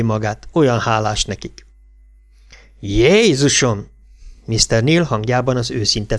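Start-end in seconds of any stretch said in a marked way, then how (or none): 2.8-3.9 drawn-out exclamation. Acted. Irish cop exclaims at boys.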